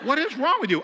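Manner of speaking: hammed-up marital yell; exasperated husband. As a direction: shout it back in mock exasperation. Retold quarrel, husband shouts back.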